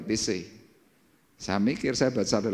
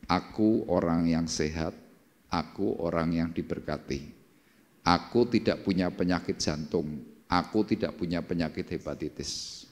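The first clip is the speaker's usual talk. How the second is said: quiet prayer; 4 semitones lower than usual. Retold or imitated. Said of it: "berkata dalam doa".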